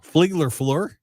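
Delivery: "Fligler Flor" with garbled extra L sounds, teasing; mocking mispronunciation. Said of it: "Sorry, I'm mocking you".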